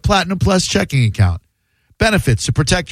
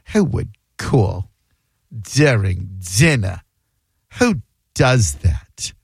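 Brooklyn Jewish mom; 7 semitones lower, slower than usual. Retold or imitated. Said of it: "only a Brooklyn Jewish woman goes".

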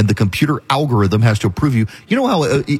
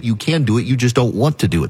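ordinary talk, nothing marked

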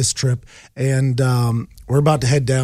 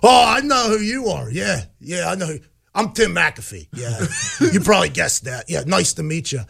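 flustered starstruck dad; 3 semitones higher than usual. Retold or imitated. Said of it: "And my dad goes".

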